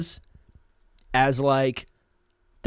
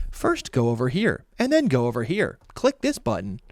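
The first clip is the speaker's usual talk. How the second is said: polished how-to voiceover, softer and measured; marketing voiceover; 2 semitones lower, 5 dB quieter than usual. Shown as a demonstration. Host demonstrates his client voiceover job, exaggerated instructional narrator. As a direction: guide a customer through a product demo. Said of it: "marketing voiceover work".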